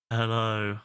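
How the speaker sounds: Marshall narrator impression. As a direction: drop into the chest like a kids' show host. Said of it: "exactly like Marshall".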